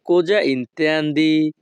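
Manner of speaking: each Italian word spaced out very slowly; slow teaching model. Shown as a demonstration. Teacher models Italian phrase for students, very slow. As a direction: spell it out slowly for learners to copy. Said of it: "Italian ভাষা".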